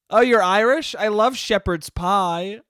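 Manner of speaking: loud, high gushing parody; over-excited imitation of a clueless stranger; mock yelling. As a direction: yell it with fake delight, dragging the end. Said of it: "why are you yelling".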